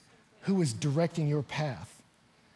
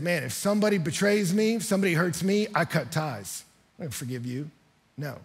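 hard admission, voice sinking at the end; voice dropping. Retold or imitated. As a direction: start firm, let the voice drop off. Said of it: "his voice changed, dropped a little bit".

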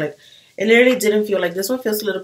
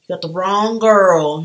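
sassy retort; 7 dB louder than usual. Retold or imitated. Sassy repeat to cashier.

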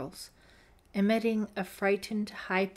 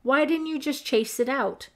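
1 scornful question; 7 semitones higher, 6 dB louder than usual. A narrator's reading. Deborah scolding Holly.

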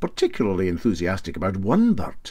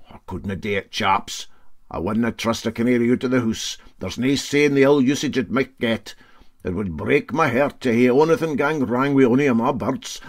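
lightly voiced riveter; 3 semitones higher than usual. Riveter to captain, lightly voiced refusal. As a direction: refuse with mock tenderness.

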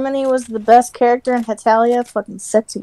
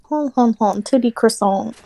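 mock French laugh; 2 semitones lower, 3 dB quieter than usual. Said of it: "That just sounds French".

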